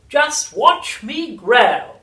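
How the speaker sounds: high, loud, slow screechy chant; sing-song triumph of a crazed old crone; shouting old grandma. A narrator's reading. Grandma rising through the house, shrieking singsong. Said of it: "she shouted".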